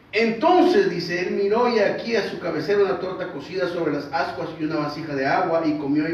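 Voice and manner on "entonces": ordinary talk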